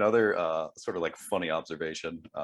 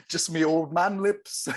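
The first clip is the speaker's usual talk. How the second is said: impression of a singer; 8 semitones higher, 4 dB louder, slower than usual. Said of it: "and he's like".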